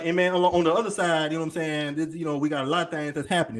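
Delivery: fast streetwise talk mid-presentation; street voice demo. Shown as a demonstration. Switching voices in a lecture to grab attention, fast. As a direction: slip into the street voice. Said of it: "switch to that voice".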